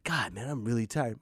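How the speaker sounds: low weary groan of a worn-out parent; tired parent mumble. Acted. Worn-out parent moaning to nobody, tired mumble. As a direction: sigh it out, drained.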